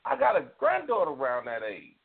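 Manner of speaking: high, strained voice holding back tears; fighting back tears; near tears. Real, not acted. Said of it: "I had to fight back tears".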